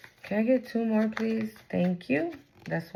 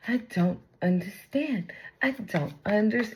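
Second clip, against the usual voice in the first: put-on reality-show girl. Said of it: "that girl from the Bad Girls Club".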